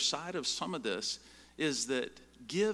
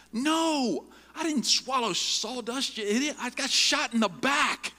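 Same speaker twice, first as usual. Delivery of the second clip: much higher, louder angry yell; frustrated shout; 13 semitones higher, 11 dB louder, slower than usual. Retold or imitated. Man in a wheelchair yelling at the speaker in Walmart, loud. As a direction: bark it at him, fed up. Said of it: "he's shouting in the middle of Walmart".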